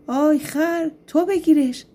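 high-pitched storybook shout, mildly forceful. A narrator's reading. Demon orders the donkey to seize him, mild shout. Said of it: "داد زد".

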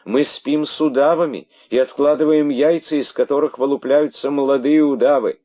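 very high, loud chorus reply; she-snakes protesting; chorus answer. Acted. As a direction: answer in shrill unison.

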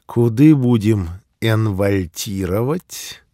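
put-on old man, slow and puzzling, drawn out; slow rustic old man asking. Old man with odd dialect word.

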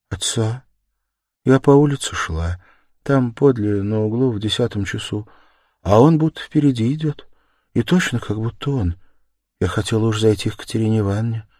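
lightly voiced meek young woman; timid Sonya, hesitant. Narrator plays Sonya recounting. (робкая Соня, нерешительно)

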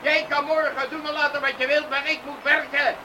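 angry farmer ordering him off the yard; angry father. Acted. Father angrily drives Arjen from his yard at night. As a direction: chase him away with anger.

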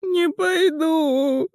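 high, slow panicked shout of Не пойду!; high shout, stress on НЕ; shrieked refusal. A narrator's reading. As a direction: scream it, clinging on. Пискнул Мел.

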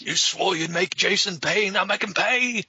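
dramatic urging. Pretend. Dubbing urging voice.

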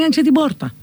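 «την πόρτα» σαν «τημ bόρτα»; ένωσε το «την» με το «πόρτα», ηχηρό b; ενωμένο νι και πι. Shown as a demonstration. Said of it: "Το νη έχει μπει". («πόρτα» με ηχηρό b)

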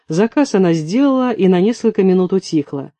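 ordinary delivery

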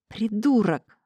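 usual speaking voice

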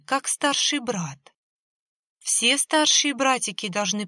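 put-on high, pleading little-girl voice; luring ghost child. A narrator's reading. Ghost sister coaxes brother toward the perimeter, high and pleading. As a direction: sweetly coax him closer like a lost little sister.

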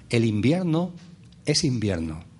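solemn pronouncement, dropping low at the end. Real, not acted. Speaker teaching his audience about the seasons, solemn. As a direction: state it with grave solemnity. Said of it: "lo solemne que me pongo".

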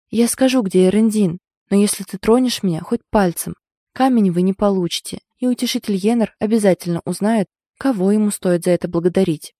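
firm voice. Acted. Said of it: "чтобы голос прозвучал твёрдо".

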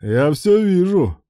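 sly laughing tease; chuckling. A narrator's reading. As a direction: tease him through a laugh. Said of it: "хохотнул Руслан".

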